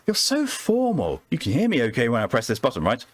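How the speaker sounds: a hint of a Southern charmer calling him formal; Southern belle accent. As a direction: play a coy Southern woman flirting with the doctor. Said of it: "God, I hate this accent".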